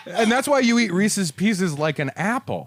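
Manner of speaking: high voice squeezed through laughter; laughing. Real, not acted. Host topping the E T riff, laughing hard. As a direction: push the punchline out while cracking up.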